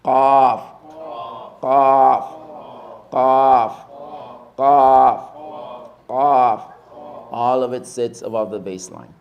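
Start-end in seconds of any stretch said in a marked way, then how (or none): 0.0-6.7 Qaf, crisp and loud, with a click at the back of the throat. Shown as a demonstration. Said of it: "It comes from the back of the tongue".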